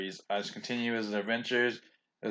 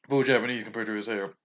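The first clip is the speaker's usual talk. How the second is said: burping. Real, not acted. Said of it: "Excuse me, I'm burping".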